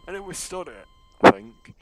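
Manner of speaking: high-pitched mock verdict; sarcastic. Real, not acted. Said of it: "I'm being sarcastic here".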